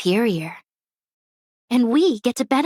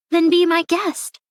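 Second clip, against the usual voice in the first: higher-pitched mocking invitation; sarcastic dare; 8 semitones higher than usual. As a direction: toss it out as a dare.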